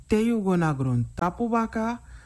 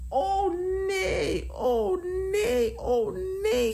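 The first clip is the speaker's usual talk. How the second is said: high, wailing plea without loudness; frightened mock scream; 12 semitones higher, slower than usual. King refuses to stay in the fire, high acted wail. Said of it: "gilde King".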